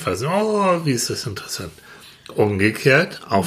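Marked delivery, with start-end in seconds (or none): 0.3-1.7 mock fascination. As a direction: act tempted by the forbidden.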